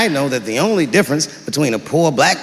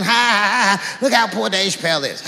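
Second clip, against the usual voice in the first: mocking kids; 2 semitones higher, 3 dB quieter than usual.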